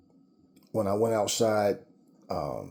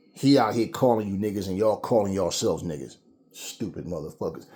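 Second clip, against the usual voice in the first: normal talking voice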